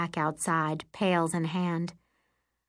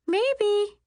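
much higher, coy and teasing; 4 dB louder than usual. Acted. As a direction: drag it out coyly. Carly coy about a crush.

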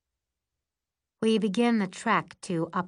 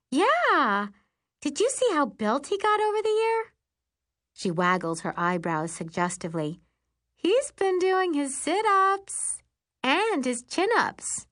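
put-on much higher, giddy teen gushing; 9 semitones higher than usual. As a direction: gush about the boy. Carly gushing about Anderson.

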